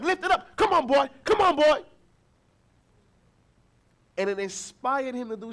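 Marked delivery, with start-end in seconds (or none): 0.0-1.8 higher, louder encouraging cheer. Retold or imitated. Father cheering his toddler son up the stairs. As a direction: pump him up like a coach. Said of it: "I'm like".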